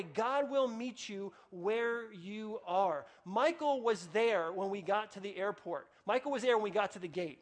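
slow, earnest preacher's promise; preaching. Acted. Pastor assuring the congregation, slow and earnest. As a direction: lean in and promise it slowly.

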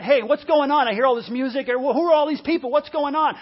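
lively, demanding questions to a servant; acted-out indignant bystander; puzzled questioning. Older brother questions the servant.

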